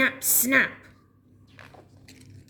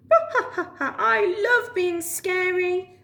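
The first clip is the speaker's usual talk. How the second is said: high, slow gloating cackle; villain laugh; 8 semitones higher than usual. Acted. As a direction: cackle with glee at being scary. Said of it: "laughed Alan".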